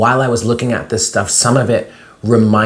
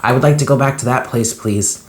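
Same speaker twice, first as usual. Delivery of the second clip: higher, quicker pleading with a catch; pleading, choked up; 3 semitones higher than usual. Retold or imitated. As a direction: beg to go back, near tears. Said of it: "I'm getting choked up".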